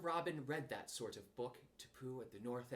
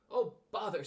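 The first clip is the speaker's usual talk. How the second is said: annoyed; 4 semitones higher, 8 dB louder than usual. Acted. Pooh stuck, annoyed.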